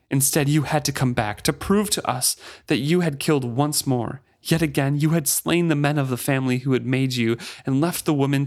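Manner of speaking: bitter Amos Ludlock. Acted. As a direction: accuse the ship of ruining her family. Amos's long accusing speech.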